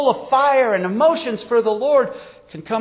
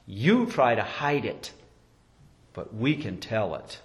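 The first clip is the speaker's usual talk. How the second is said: quiet knowing reply; 9 semitones lower, 8 dB quieter than usual. Acted. Inmate tells the guard hiding his faith, quietly knowing. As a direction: say it softly, seeing through the pretence.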